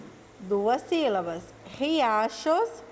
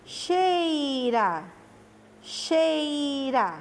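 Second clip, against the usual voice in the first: drawn-out word; 2 semitones higher, much slower than usual. Shown as a demonstration. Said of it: "Cada parte da palavra".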